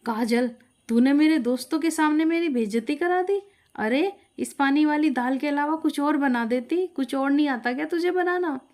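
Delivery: furious reproach; husband angrily blames his wife over dinner; angry husband. Acted. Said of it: "गुस्से से भर गया".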